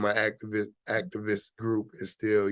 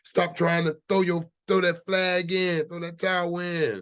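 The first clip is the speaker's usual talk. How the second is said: a hammed-up divine voice giving firm orders; voice of God; 8 semitones higher than usual. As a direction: lift the voice high and speak as God telling him to stop. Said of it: "God said".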